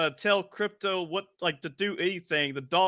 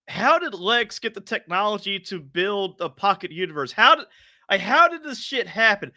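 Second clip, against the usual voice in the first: baffled. Retold or imitated. Acting out bafflement at the plot.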